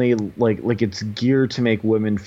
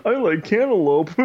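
mock girly reply; 9 semitones higher than usual. Imitating a match's reply.

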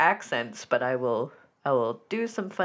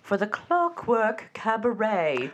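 measured show-opening announcement; host's formal welcome over music; show announcer intro; 4 semitones higher than usual. Acted. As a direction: open a cabaret show, drawing out the first word. Opens the show.

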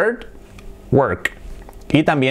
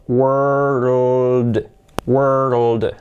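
"World" stretched out, every sound held; slow demonstration; 3 semitones lower than usual. Shown as a demonstration. Teacher asking learners to watch, slow demonstration. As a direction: draw "world" out slowly through r and l. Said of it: "Hacha despacio, fijaos".

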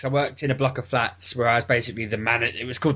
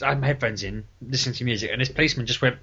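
normal talking voice

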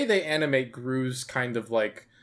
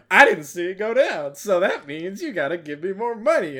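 imitated jerk at the counter, pitched up; obnoxious stand worker; 6 semitones higher, 3 dB louder than usual. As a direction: put on a higher voice for a dismissive jerk. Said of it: "he is an asshole".

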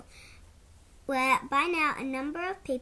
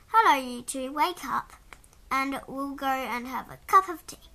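calling out; 7 dB louder than usual. Acted. Mum wakes the children.

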